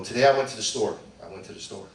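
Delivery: second half dropped to a near mutter; the old habit of saying it twice; repeating myself. Shown as a demonstration. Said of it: "I would go".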